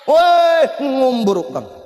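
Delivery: loud high "Woi" yelled out; sudden mock-angry yell; scolding shout. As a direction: bark it at a showy rich man. Preacher scolds the rich man.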